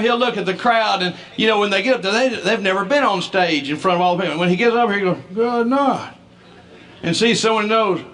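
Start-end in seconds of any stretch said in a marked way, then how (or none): 5.3-6.1 put-on high, hearty old dad calling out; dad's booming greeting. Son imitating his hard-of-hearing dad, hearty and high. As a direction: deacon greeting the congregation from the stage.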